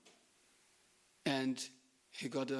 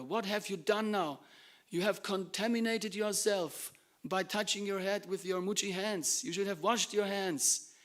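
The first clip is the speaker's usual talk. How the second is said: raised, higher-pitched rebuke; angry scolding; 5 semitones higher, 4 dB louder than usual. Acted. Master angrily rebuking his devotee over unwashed hands. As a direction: scold with indignation, driving each phrase hard. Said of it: "into a kind of an angry mood".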